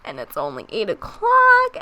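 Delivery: flat tired monotone; sleepy voice with no energy. Real, not acted. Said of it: "my voice sounds super monotone".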